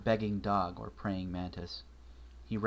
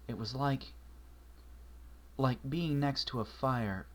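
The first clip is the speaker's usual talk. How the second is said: lightly voiced young mare; 3 semitones higher than usual. Twilight telling Marshall about the creature, lightly voiced and uneasy.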